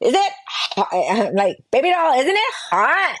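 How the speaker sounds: put-on Valley Girl voice and accent. Imitating how a group of people would talk, in a valley girl accent. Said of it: "they would all like speak like Valley Girl".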